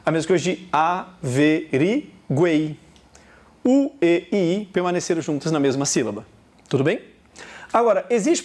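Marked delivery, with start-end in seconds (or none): 0.7-2.8 "averiguei" split slowly into a, ve, ri, guei; syllable division. Shown as a demonstration. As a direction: say "averiguei" with a pause after each syllable. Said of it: "Você vai fazer uma divisão silábica". ("averiguei" sílaba por sílaba, devagar)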